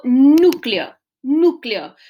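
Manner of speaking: núcleo said twice, leaning on NÚ; emphasised word. Shown as a demonstration. Teacher presenting the next word to divide, emphasised word. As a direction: punch the first syllable of núcleo. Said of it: "la silibación de esa palabra".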